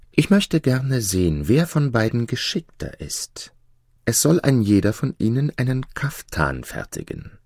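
lightly voiced princess with a plan; clever princess. Princess sets condition.

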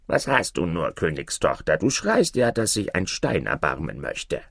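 lightly voiced frog in a fairy tale; a hint of a talking frog; frog calling out. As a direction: call to a crying princess as the frog. Frog calls to the princess.

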